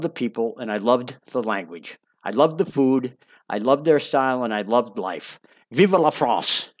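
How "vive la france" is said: French exclamation. Acted.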